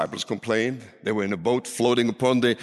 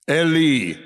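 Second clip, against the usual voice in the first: raised, imitated cry to God; 2 semitones higher, 4 dB louder than usual. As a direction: call out the name with force. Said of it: "He cried out".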